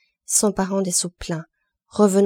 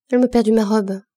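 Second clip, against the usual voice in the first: crying out; 3 semitones higher, 6 dB louder than usual. Acted. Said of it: "cria celle-ci".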